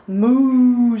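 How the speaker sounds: mooing like a cow; a playful cow moo for a toddler. Pretend. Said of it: "said the cow".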